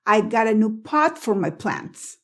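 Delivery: "pot" stopped on a silent T inside the phrase; teacher's demo, no puff on the T of "pot"; unreleased T. Shown as a demonstration. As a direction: hold back the T in "pot" before "for". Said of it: "pero no exploté pot".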